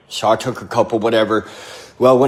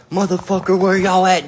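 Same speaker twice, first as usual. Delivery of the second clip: imitating an angry dad, higher-pitched; retold angry demand, pitched up; pissed-off dad; 8 semitones higher than usual. Dad bursts through the door with his shotgun, pissed off. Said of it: "So he was pissed".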